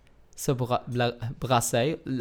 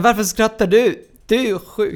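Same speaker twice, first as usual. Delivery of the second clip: retold doctor's question; 8 semitones higher, 10 dB louder than usual. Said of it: "Så säger han".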